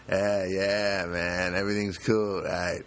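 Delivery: a lightly voiced, slow, laid-back upstairs guy; just a hint of an easygoing dude greeting you; mellow neighbor. Upstairs neighbor greeting him in the hall, lightly voiced mellow dude. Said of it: "mellow kind of demeanor".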